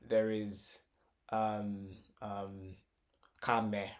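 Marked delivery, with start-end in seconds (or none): 3.4-3.9 "camera" split into ka, me, ra; broken into syllables. Shown as a demonstration. Teacher counts out three syllables, "camera" split as ka-me-ra. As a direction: say "camera" one syllable at a time. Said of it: "So there's ka".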